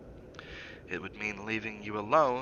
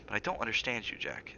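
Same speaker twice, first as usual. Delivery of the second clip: lowered voice; 5 dB quieter than usual. Acted. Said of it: "lowering her voice".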